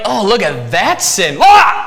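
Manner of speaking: high mock sheep, ending in a loud wail; silly sheep voice. Preacher voicing a sheep pulled from sin, high then wailing. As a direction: play the wandering sheep yanked back. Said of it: "They're like".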